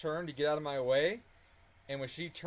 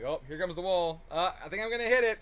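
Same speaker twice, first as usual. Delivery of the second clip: nervous excitement; 3 semitones higher, 6 dB louder than usual. Retold or imitated. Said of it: "I'm like".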